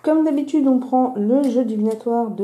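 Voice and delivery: slight lisp from a fresh tongue piercing; lisping on the s sounds. Real, not acted. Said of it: "il est fort probable que je zozote".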